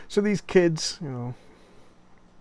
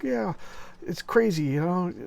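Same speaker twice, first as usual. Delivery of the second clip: mock rattled excitement; 7 semitones higher, 3 dB louder than usual. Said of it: "And he's like".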